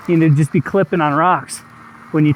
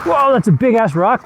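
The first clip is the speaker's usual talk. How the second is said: surprised; 6 semitones higher than usual. Real, not acted. Surprised by rock on trail.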